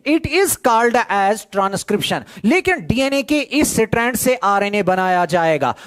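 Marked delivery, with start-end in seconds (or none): 0.1-2.2 slow, spelled-out dictation pace. Shown as a demonstration. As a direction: give the definition word by word for notes. Teacher dictates definition slowly.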